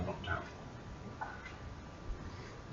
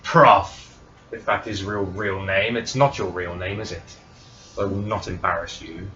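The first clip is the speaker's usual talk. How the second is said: booming divine voice; 10 dB louder than usual. Acted. Divine being addresses Prof.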